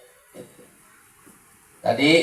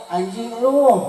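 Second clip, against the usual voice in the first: high mock insult; imitated pupils' swearing; 8 semitones higher than usual. Preacher imitating swearing heard at school, high mock insult. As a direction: mimic a pupil cursing, pitched up. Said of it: "di sekolah maribu".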